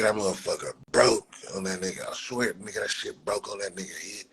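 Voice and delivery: usual speaking voice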